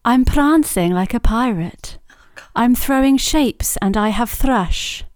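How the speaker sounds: slow, measured riddle recital. Acted. Host poses a cocktail riddle to guests in riddle voice. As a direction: recite it slowly with a slight Welsh lilt. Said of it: "That's her riddle voice".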